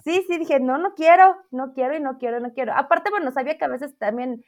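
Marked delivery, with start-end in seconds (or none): 0.6-2.7 a stubborn no that loses steam; adamant refusal fading. Retold or imitated. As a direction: refuse firmly at first, then let it die away. Retold refusal to become teacher.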